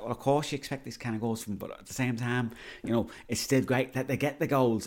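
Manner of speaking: attempted Liverpool accent; pundit's rebuttal in put-on Scouse; rough stab at a Liverpool accent; Gary Neville. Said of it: "Gary Neville is not from Liverpool".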